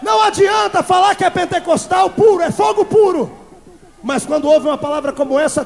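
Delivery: loud, high rebuke from the pulpit; fiery preaching. Acted. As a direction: thunder it at a lukewarm church.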